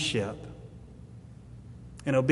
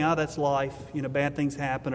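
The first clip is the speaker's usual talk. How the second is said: lightly acted indifference, a bit softer; resigned shrug; 4 dB quieter than usual. Someone shrugging off bad things, mildly acted resignation. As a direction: toss it off with a mock verbal shrug. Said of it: "shrugging your shoulders and saying".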